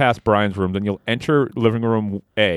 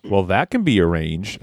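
threatening; 3 semitones lower than usual. Acted. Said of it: "threatened Jeff".

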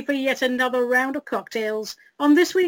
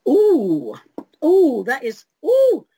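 right after a sip; 4 semitones higher, 6 dB louder, slower than usual. Real, not acted. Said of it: "let me take a sip of today's carefully selected libation".

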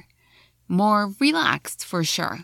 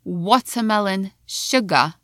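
watermelon sugar with no R, British. Shown as a demonstration. A teacher contrasting the British spoken version.

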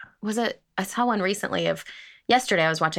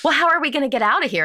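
laughing quote; 7 semitones higher, faster than usual. Retold or imitated. Retelling panicked friend, laughing.

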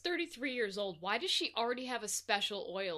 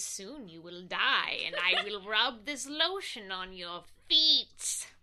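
mock solemn Mary; 3 semitones lower, slower than usual. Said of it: "she carries it around with her and says".

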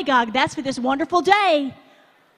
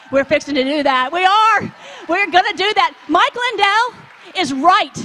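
louder, punching each claim; emphatic preaching; 3 semitones higher, 5 dB louder than usual. Real, not acted. Preacher rallying the crowd, loud and insistent. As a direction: drive it home to the crowd.

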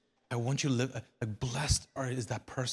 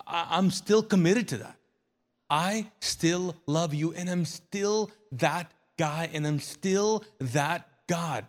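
pleading voice of God; 4 semitones higher, 3 dB louder than usual. Acted. Preacher voicing God, pleading.

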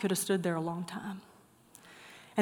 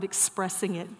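"expressing" leaned on, in a softer voice; stress on expressing; 3 semitones lower, 6 dB quieter than usual. Shown as a demonstration. Preacher underlining the key word for listeners, stress on "expressing". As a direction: underline "expressing" quietly and deliberately. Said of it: "I'm gonna emphasize that word".

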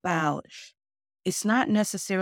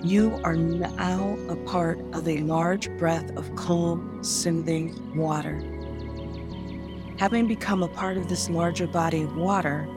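sleep story narrator. Acted. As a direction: lull them calmly, word by word. Leads a guided meditation.

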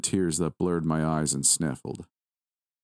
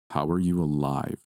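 lightly voiced kidnapper, musing to himself; a hint of a deep voice, questioning himself; 2 semitones lower than usual. A narrator's reading. Lucifer finds the captive alive, musing in a slightly deepened voice. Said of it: "his deep voice said, more a question to himself".

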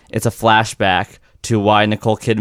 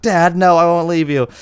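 higher, hammed-up heroic plea; mock devoted son; 7 semitones higher than usual. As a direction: overplay the loyal son refusing to leave. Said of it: "and then he's like".

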